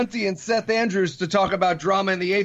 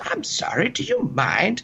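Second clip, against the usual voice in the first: put-on gentle sweet old lady voice, slow and polite; 3 semitones higher than usual. Retelling what an old lady on a bus said: imitating a sweet little old lady. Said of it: "very sweet little old lady".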